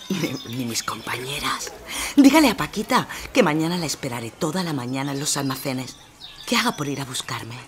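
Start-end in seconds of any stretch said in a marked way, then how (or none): 0.1-1.7 whispered, slow aside. Acted. Seller warning the neighbour to keep quiet, whispering. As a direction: hush it so the neighbours won't hear.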